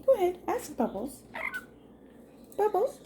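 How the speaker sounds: sing-song high pitch to coax a bird. Real, not acted. Owner coaxing her parrot, high sing-song voice.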